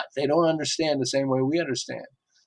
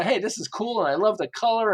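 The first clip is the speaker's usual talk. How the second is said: eager buyer; 6 semitones higher than usual. Retold or imitated. Imagined excited car buyer.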